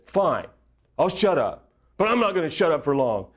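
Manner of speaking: a touch of defiant bluster; mock tough guy. Husband grudgingly agrees to shut up for counselor, mock tough. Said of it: "I was big, tough guy".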